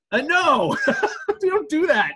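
shocked outburst. Real, not acted. Horrified at tackling an autistic girl.

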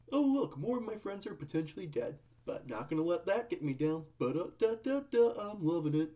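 breezy sing-song mockery; mock carefree. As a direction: sound falsely cheerful and unbothered. Mocking Ronald's carefree attitude.

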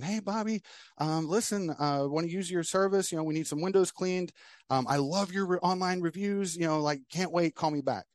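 a hint of an excited customer on voicemail; caller woman voiced. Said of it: "There's this woman saying".

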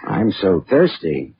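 slow, dry mocking echo; wry echo. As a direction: turn her words into a joke. Mocks her phrasing, slow.

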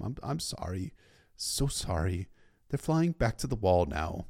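soft, hesitant apology; subdued apology. A narrator's reading. Sam apologising to Paul for the freed ravens, subdued. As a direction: apologise quietly, haltingly.

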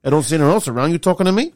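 mock Taxi Driver gangster; New York gangster. Host mocks the coach's New York gangster sound, mock gangster. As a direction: lean in like a New York tough guy. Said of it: "New York gangster in there".

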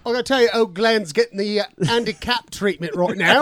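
mock British geezer; bad British accent. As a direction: chat it in put-on British. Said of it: "our accents are so bad".

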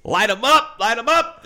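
high, loud gleeful chant; hammed-up war whoop; mock battle cry. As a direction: egg them on like a trigger-happy fan. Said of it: "you're like".

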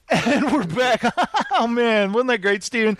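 hammed-up laughing host back from a break; fake post-break cheer. Host fakes a fun return from commercial break, hammed up. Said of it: "like we're coming back from a commercial break where we're just having the best time".

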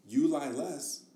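sappy slogan, drawn out at the end; cringy slogan. Real, not acted. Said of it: "That sounded so cringy".

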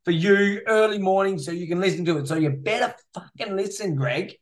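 mildly indignant, playful scolding; mock rant. Host scolding Greg about uploading on Christmas, mock rant. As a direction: rant at a listener with mock grievance. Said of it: "Sorry, there's my rant over".

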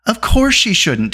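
high, drawn-out angry agreement; heated, indignant interjection. A narrator's reading. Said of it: "Taran put in angrily".

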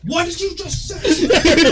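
high, loud, slow mock challenge; retold confrontation. Storyteller acting the gang leader squaring up, mock outrage.

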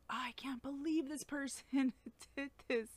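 hushed disbelieving whisper with a little laugh; shocked whisper. Retold or imitated. Preacher recalling hurtful news to listeners, whispered disbelief. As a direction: breathe it out in stunned disbelief.

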